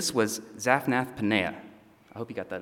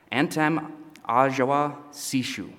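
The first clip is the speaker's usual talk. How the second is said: slow, menacing made-up Egyptian words, voice changed; menacing mock Egyptian; 3 semitones higher than usual. Joseph threatening his brothers in Egyptian, slow and menacing. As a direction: growl it slowly like a foreign ruler barking at prisoners. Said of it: "You don't have to wait for a translator to know that's not good".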